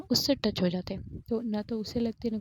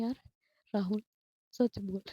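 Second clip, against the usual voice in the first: laughing. Retold or imitated. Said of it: "और वो बहुत हंस रही थी".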